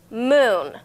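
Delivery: moon said as one clear clapped beat; clapped syllables. Shown as a demonstration. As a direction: clap out moon as a single beat. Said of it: "So we're gonna clap along".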